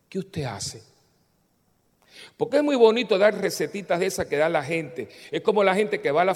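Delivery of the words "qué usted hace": breathless whispered question; a helpless voiceless plea. Retold or imitated. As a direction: whisper it, at a loss. Woman's helpless question in retold story.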